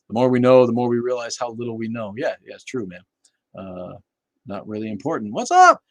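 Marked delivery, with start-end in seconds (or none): 5.3-5.8 excited greeting. Real, not acted. Greeting a chatter.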